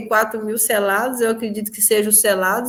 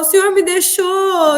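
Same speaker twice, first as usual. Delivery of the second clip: crying lament; 6 semitones higher than usual. Retold or imitated. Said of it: "e eu falava".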